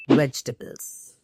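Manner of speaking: "vegetables" in three beats, VEJ-tuh-bls; correct pronunciation. Shown as a demonstration. Teacher revealing the main source of fiber, compact "vegetables". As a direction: drop the middle vowel of "vegetables". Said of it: "Yes, you heard it right".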